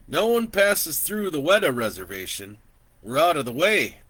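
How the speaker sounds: put-on an old man chatting easily from horseback; gentle old landowner welcoming a stranger; kindly old man.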